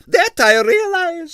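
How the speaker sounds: high, loud and slow disdain; haughty ballerina. A narrator's reading. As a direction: draw it out with lofty scorn. Arienskaya haughty retort.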